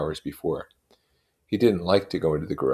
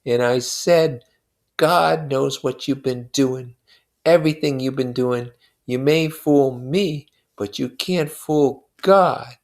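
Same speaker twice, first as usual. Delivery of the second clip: slow, grave, louder voice; Wilson, solemn and slow; 9 semitones higher, 6 dB louder, slower than usual. A narrator's reading. Grieving husband telling his friend how he warned his wife, slow and grave. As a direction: lay each word down like a verdict.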